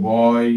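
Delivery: "বয়" with a drawn oy glide; oy sound. Shown as a demonstration. Teacher giving an example of oy in "বয়", slow demo. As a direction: say "বয়" slowly, ending in oy. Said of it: "সেটাকে বলা হয় আমাদের অয় দিয়ে".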